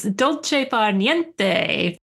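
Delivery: slow careful Italian accent on "dolce far niente"; self-conscious attempt at Italian accent. Shown as a demonstration. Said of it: "I'm gonna try to say it in my best Italian accent".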